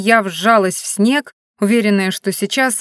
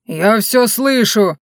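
called from afar; 2 semitones higher, 4 dB louder, much slower than usual. Acted. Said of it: "донеслось издалека".

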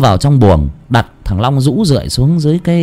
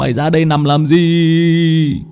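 slow, faltering panicked voice; stammering in panic; slower than usual. A narrator's reading. Nam panicking at finding Long by the gate, stammering. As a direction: fumble the words, scared. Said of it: "mồm thì lắp bắp".

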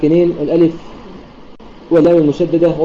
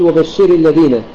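وبشر الذين with the stress late, on شِرِ; slower than usual. Shown as a demonstration. Teacher showing a common error, stress on the ر of وبشر. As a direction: lean wrongly on the ر of وبشر. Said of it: "يأتي بنبر على الراء".

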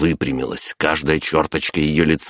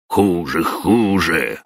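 wailing grief; 2 semitones higher, much slower than usual. Acted. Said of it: "горестно взвыл дед".

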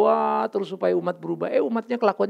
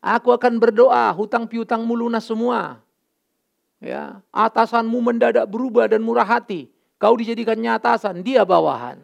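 mock prosperity preacher; 3 semitones higher, 6 dB louder than usual. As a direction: ham up a smooth preacher's promises. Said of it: "kalau ngomong janji-janji sekarang kan gampang".

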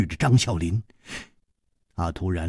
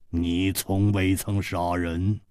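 cold killer; 2 semitones lower, 3 dB quieter, slower than usual. Acted. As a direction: state it coolly, drawing it out. Killer sizes up smiling opponent.

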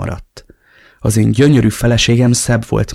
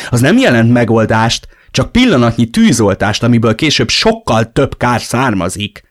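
lecturing him with raised voice; preaching; 3 semitones higher, 6 dB louder than usual. Acted. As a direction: sermonize like a stern friend. (kioktatóan papolva)

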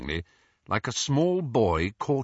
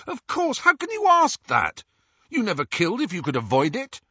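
insistent; 12 semitones higher, 5 dB louder than usual. A narrator's reading. Harry insisting eagerly.

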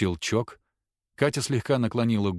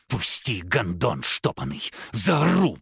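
hoarse hiss; slower than usual. Acted. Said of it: "прошипела Агата сиплым низким голосом".

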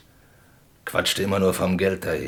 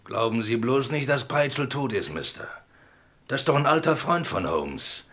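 sly convict's parting words; 4 semitones higher, 3 dB quieter than usual. Acted. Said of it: "beendete seinen für Holmes belastenden Bericht mit den Worten".

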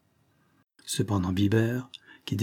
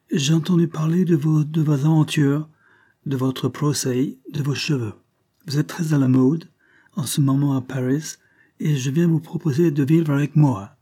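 higher, louder Englishman speaking French; British accent; 5 semitones higher, 4 dB louder than usual. A narrator's reading. Englishman proposing they live together, strong British accent. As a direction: court her in stiff English-accented French. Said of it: "un accent britannique des plus prononcés".

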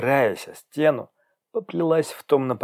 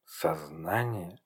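slow, quiet puzzled echo; a soft, slow murmur of confusion; confused murmur; 5 semitones lower, 10 dB quieter, slower than usual. Acted. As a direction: repeat the word slowly, to herself. Confused patient echoes word.

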